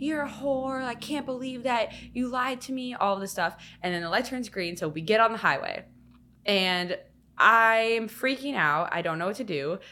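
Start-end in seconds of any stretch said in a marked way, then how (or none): 0.0-2.9 play-acted high screaming. Retelling how a man banged on the speaker's car window at a red light, retelling a scream. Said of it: "screaming at me like".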